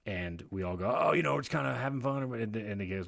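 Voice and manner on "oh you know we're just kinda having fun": higher, louder breezy mock answer; breezy group reply. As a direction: imitate a carefree tipsy group. Group playfully answers bus driver.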